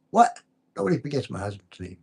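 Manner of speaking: shocked disbelief. Retold or imitated. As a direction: act out mock outrage at being forgotten. Retold indignant reply to Chrissy.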